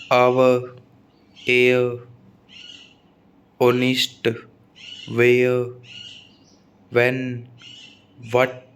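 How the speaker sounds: each word alone, no H in "आवर, ऑनेस्ट, व्हाट, घोस्ट"; silent H. Shown as a demonstration. Teacher listing examples for students, "आवर" to "घोस्ट" with silent H. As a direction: read "व्हेन, व्हिच, व्हील" with a plain V-like start, H unspoken. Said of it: "एच कब कब silent रहता है".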